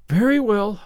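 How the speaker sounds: put-on a girl giving in, a touch reluctant; mildly resigned yes; resigned Anne. A narrator's reading. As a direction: agree because you must. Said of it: "said Anne resignedly".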